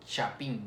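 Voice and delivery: chapín with a crisp CH at the start; CH sound. Shown as a demonstration. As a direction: model word chapín, CH clearly articulated. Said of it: "es el sonido de che".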